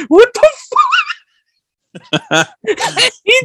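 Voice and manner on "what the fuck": laughing quote. Retold or imitated. Quoting the confused guy, laughing.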